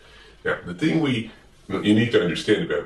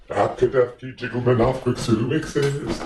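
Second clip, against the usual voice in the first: much higher, wondering bird voice; high Big Bird voice; 5 semitones higher than usual. Acted. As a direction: ask Gordon in a high, eager bird voice. Big Bird sings about the word.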